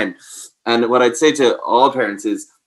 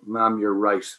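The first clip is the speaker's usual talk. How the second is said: hammed-up fake conversion, high and loud; mock sarcastic epiphany; 4 semitones higher, 4 dB louder than usual. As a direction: ham up a too-good-to-be-true apology. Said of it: "they actually go".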